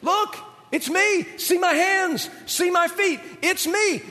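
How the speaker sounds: high-pitched, playful beckoning; comic, eager invitation in short bursts; coaxing Jesus. Acted. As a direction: coax frightened friends closer in a high voice. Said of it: "Then he says this".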